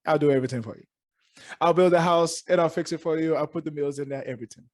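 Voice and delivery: a light, hammed-up Jamaican accent; bad Jamaican accent. Host teasing a guest by voicing him in a bad Jamaican accent. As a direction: jokingly put on a poor Jamaican accent for the guest. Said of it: "That was a horrible Jamaican accent".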